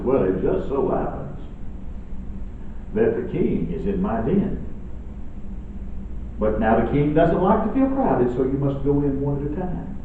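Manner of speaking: scheming fox. Acted. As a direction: lure them in quietly. Fox lures the birds in.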